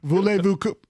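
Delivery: mock French accent; playful French phrase; a touch of hammed-up French. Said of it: "okay, I'm stopping".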